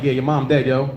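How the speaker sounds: level, low-key delivery of bad news; flatly offhand, no feeling in it; monotone. Comic imagines breaking a death to family, monotone. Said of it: "like, monotone".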